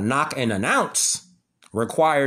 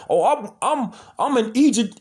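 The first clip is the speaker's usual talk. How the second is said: mock self-important scholar; 7 semitones higher than usual. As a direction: puff yourself up like a smug expert. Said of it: "Where they be like".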